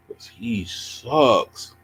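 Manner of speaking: very slow mocking taunt; mock drawl. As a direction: stretch it out to tease him. Mocking the chess opponent.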